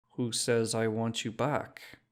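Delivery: put-on slow, skeptical Czech-accented question; doubtful shopkeeper in a Czech accent; dense Czech accent. Shopkeeper doubting the drunk, slow Czech accent. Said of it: "said in a dense accent".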